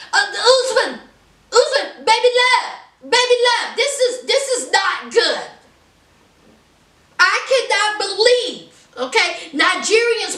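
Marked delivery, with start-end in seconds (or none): 0.1-5.5 put-on pitched-up pleading, lingering on baby love; high pleading wife voice. Wife begging her fiancé, a mimicking high plea. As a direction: coo his name up high, half laughing. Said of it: "And here she is".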